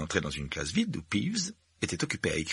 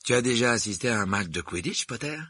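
enthusiastic question; 4 semitones higher than usual. Acted. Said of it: "demanda-t-il d'une voix enthousiaste".

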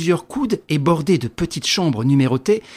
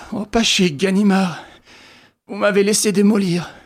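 stammering injured man; 5 semitones higher than usual. Acted. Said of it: "Il balbutia".

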